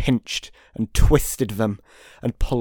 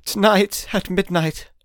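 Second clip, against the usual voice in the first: ghostly voice; 6 semitones higher than usual. A narrator's reading. Ghost speaks ominously.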